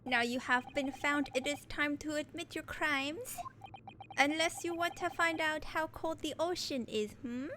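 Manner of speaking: threatening interrogator, put-on Russian accent; taunting Russian accent. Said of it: "Should I attempt a Russian accent?".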